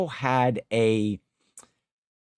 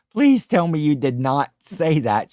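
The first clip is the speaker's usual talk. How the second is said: louder, emphatic mock horror; dismayed plea; 3 semitones higher, 5 dB louder than usual. Husband learns of Jill's blunder, dismayed plea. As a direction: plead in retold disbelief, hitting it harder.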